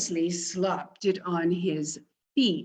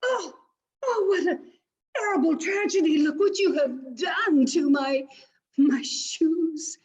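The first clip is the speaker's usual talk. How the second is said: pig suitor wailing high and loud over his shoes; hammed-up wail; 8 semitones higher, 4 dB louder than usual. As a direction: overact the tragedy with a crying voice. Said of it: "said Don Cerdo".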